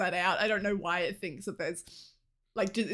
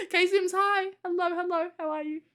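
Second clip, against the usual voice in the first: excited greeting; 9 semitones higher, 4 dB louder than usual. Real, not acted. Greeting viewer warmly.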